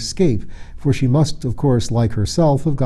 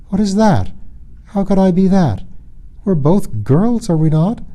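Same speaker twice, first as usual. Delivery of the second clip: puzzled; 8 semitones higher than usual. Acted. Nycteris puzzled.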